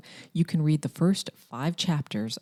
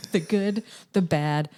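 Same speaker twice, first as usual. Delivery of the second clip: infomercial voice; 5 dB louder, slower than usual. Acted. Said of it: "my infomercial voice".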